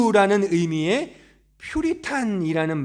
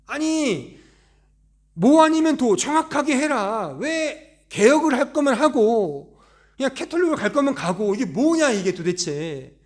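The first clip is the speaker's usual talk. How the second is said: annoyed reformers' complaint; 3 semitones higher than usual. Retold or imitated. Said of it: "기분이 상하는 거죠".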